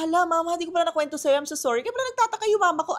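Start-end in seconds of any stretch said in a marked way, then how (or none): 0.0-1.9 flustered apology. Retold or imitated.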